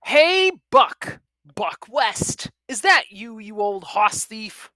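loud, high boisterous hail. A narrator's reading. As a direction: holler it out like a rowdy cowboy. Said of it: "The loud, boisterous voice".

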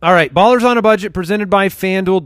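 upbeat sponsor read; booming prize announcer. Acted. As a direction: announce the segment title.

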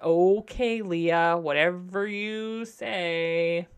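drawn-out, eye-rolling okay, then slow whatever you say; sarcastic dismissal. Retold or imitated. Sarcastically brushing off Leah's excuse, drawn-out and dismissive. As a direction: brush her off sarcastically, stretching the last words. Mocking cast member's claim.

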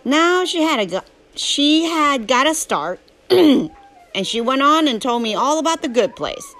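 Huck's southern drawl, telling his story; southern storytelling voice. Acted. Reading Huckleberry Finn aloud to a drowsy listener, southern narration. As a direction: read it as a folksy southern tale.

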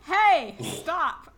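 shout. Acted. Player's character tries to make fleeing child stop, shouting. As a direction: shout to halt someone, briefly. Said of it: "I shout".

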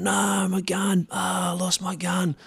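high, slow wailing over the lost gun; hammed-up groan of a gutted mate; mock lament. Gutted mate bemoans his lost speargun to the boat, mock wail. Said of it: "he's spewing".

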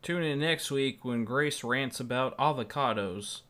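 lightly put-on, drawn-out promo read; a hint of radio sign-off voice; mock announcer. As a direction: tease next week's show like an announcer. Mock trailer for next week's rant.

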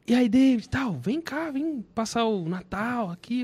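uncle's invitation. Retold or imitated. Uncle phones nephew to visit for Christmas, lightly imitated invitation.

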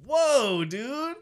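high-pitched protesting "whoa"; loud, high mock objection; mock taken aback. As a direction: imitate a son shocked at mom. Acts son objecting to his mother.

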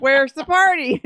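hammed-up disappointment, stretched out; mock disappointed. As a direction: whine it slowly, mock let-down. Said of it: "All disappointed".

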